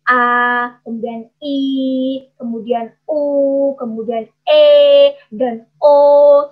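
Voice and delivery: A, I, U, E, O each stretched long; exaggerated vowel articulation. Shown as a demonstration. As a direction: draw out every vowel A, I, U, E, O, held steady like a face exercise. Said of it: "kita bisa sebutkan huruf-huruf".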